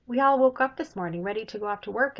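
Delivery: fast, loud, eager dwarf voice; excited dwarf. Acted. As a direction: rush it out, bursting to tell. Third dwarf explains, voiced by reader.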